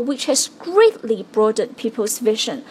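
greatly held and hit hard; stress on greatly. Shown as a demonstration. 老师示范重读greatly. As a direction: lean on the word greatly. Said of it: "把这两个词重读出来".

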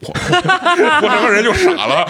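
high, slow laughing stunned cry; laughing at own sudden fever; laughing disbelief. Real, not acted. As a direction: laugh at your own shock. Fever hit 39.5, laughing shock.

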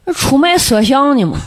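put-on Shaanxi-accented guard, laughing. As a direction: quote the guard in Shaanxi dialect. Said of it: "我就用陕西话说啊".

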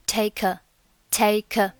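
slow "take a", the k carried into "a"; linked pronunciation. Shown as a demonstration. Teacher demonstrating linking to learners, "take a" joined slowly. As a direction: run "take a" together as one word. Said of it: "take a连读".

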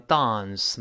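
"dance" with British broad a, tahns. Shown as a demonstration. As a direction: say "dance" the British way, long open a. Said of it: "英国人读成". (英式发音 "dance"，长元音 a)

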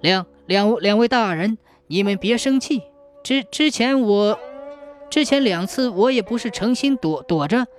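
stuttering in fear; stammering scared. Acted. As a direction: tremble and trip over words. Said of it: "吓得浑身直打哆嗦， 说话也不利索了".

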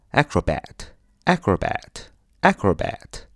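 acrobat with AC- hit hardest, slow teaching repeat; stress on the first syllable. Shown as a demonstration. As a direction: lean on the opening AC of acrobat. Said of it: "重音在第一个".

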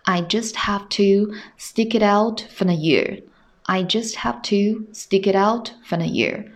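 slow teacher's read with "stick it out" run together; measured demonstration, "stick it out" joined without gaps; linked model reading. Shown as a demonstration. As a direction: read it slowly, linking "stick it out" as one word. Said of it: "我们完整的去读一下".

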